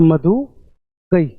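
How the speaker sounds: मधु गई read very slowly, word by word; slow deliberate reading. Shown as a demonstration. Teacher to students, reading मधु गई very slowly. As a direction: drag out मधु गई as a slow demo. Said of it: "सिर्फ इतना ही".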